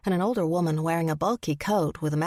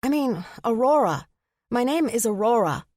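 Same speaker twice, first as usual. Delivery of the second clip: flustered correction; 5 semitones higher, 4 dB louder than usual. A narrator's reading. Flustered self-correction to a stranger.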